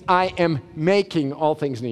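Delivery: "making" leaned on, ongoing; stress on making. Shown as a demonstration. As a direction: hit "making" gently, then let it fall. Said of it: "Would you notice it's not".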